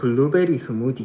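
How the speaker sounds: regional Korean satoori dialect with a lilt. Trying the dialect the speaker calls weird, regional Korean dialect. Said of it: "저 사투리 쓰면 완전 이상한데".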